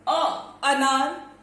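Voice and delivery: अ, अनार spoken slowly, each sound held; drawn-out demo. Shown as a demonstration. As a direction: stretch अनार slowly to show the length. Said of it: "कितना time लगा इसे बोलने में". (धीरे-धीरे खींचकर बोला गया अ, अनार)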